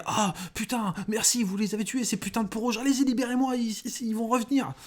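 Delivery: high, frantic pleading captive; panicked prisoner. Acted. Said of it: "et t'es".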